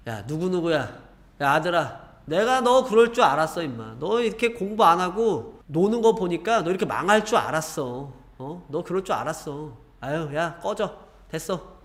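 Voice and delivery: a contemptuous parent who jeers and rises sharply on "I knew you would"; scolding parent. Retold or imitated. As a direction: rub in the failure, then dismiss the child. Parent scolding failed child.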